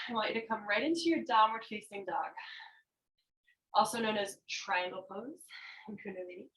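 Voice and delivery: panting between words; out of breath. Real, not acted. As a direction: talk while catching your breath. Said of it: "I am out of breath right now".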